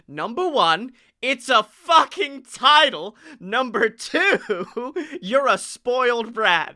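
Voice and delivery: put-on a light Australian accent, slow and drawn out, that fades by the end; Rhea's Australian accent. Mocking Rhea's comment with a brief Australian accent. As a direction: start the quote in a slow Australian accent, then let it slip. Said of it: "I'm gonna do her accent".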